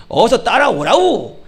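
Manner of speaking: slow, drawn-out Pyongan dialect call. Shown as a demonstration. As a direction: imitate a North Korean Pyongan accent, stretched. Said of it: "평안도 말은 어떻게 돼?". (길게 늘인 평안도 사투리)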